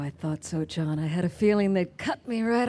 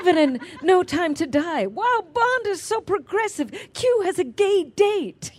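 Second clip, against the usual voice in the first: sarcastic; 10 semitones higher, 3 dB louder than usual. Retold or imitated. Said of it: "sarcastic high mock praise".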